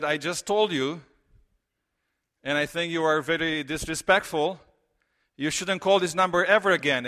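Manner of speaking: retold anger. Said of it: "Now that's anger".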